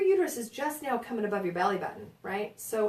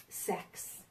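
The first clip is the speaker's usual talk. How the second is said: unvoiced, hushed "sex"; whispered topic; 8 dB quieter than usual. Real, not acted. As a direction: drop to a whisper as if it's taboo. Announcing delicate topic.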